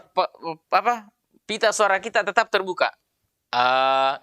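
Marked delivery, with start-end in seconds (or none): 3.5-4.2 A released loosely, no throat pressure; relaxed, sustained A; loose open voice. Shown as a demonstration. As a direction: let "A" out freely and evenly. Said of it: "dengan suara yang longgar".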